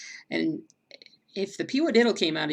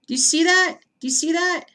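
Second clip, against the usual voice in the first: high loud disbelieving question; shocked repeat to viewers; astonished; 11 semitones higher, 7 dB louder than usual. Real, not acted. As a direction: point at it in amazement.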